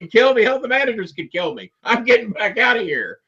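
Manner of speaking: high-pitched comic panic; hammed-up fright, voice way up high; retold panic. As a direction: act out your terrified younger self wanting to flee. Retold fearful self at ringside.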